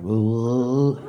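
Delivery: low, queasy groan; mock retch. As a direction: groan as if about to throw up. Mitchell about to throw up.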